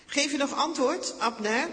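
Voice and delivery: high, loud call to a distant camp; shouting across the ravine. A narrator's reading. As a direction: yell it from the mountaintop. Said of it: "toe te schreeuwen".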